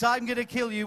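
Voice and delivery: "I'm gonna kill you" said with menace; with venom. Shown as a demonstration. Host coaching the villain, a touch of venom. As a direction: spit the threat. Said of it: "which you say with venom in your voice".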